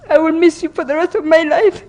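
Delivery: ordinary talk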